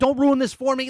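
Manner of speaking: mock bubbling-over thrilled child voice, high and loud. Retelling a child's joy at a new game, imitating excited son. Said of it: "he was so excited".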